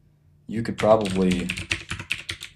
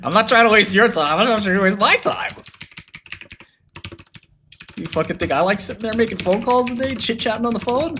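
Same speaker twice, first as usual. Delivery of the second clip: mock programmer rant; 10 semitones higher than usual. Mocking the programmer who won't take calls, high whiny rant. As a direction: ham up his self-important excuse.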